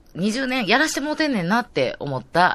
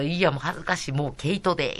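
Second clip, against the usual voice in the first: lightly imitated bashful modesty; bashful modest guest; 6 dB quieter than usual. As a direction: brush off the compliment softly, imitating her. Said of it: "言い方がいつも面白い".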